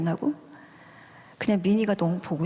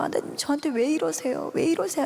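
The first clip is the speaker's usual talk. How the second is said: high, pleading protest without much volume; mild retold wail; retold yelling at God; 6 semitones higher than usual. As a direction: demand an answer in a held-back cry. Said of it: "소리를 막 지르면서".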